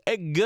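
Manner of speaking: quick imitated street call; imitating brother's catcall. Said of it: "That's what Kwanzaa used to say".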